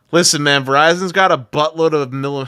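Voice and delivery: very loud argumentative yell. Arguing about spectrum with another speaker: getting loud. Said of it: "don't be getting loud with me".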